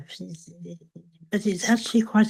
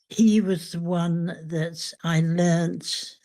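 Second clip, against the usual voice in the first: slow down to land on "learnt"; "learnt" drawn out and set apart by a pause; stress on learnt; slower than usual. Real, not acted. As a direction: give weight to "learnt", unhurried. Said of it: "I emphasize the word learnt".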